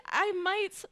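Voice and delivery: put-on high squeaky girly voice; cutesy voice. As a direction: squeak it like a cartoon girl. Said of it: "I accidentally be doing voices".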